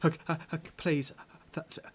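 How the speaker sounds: stammering, pleading captive woman; scared captive. Acted. Frightened prisoner begs the rescuers, stammering pleas. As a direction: beg the strangers for help, voice shaking.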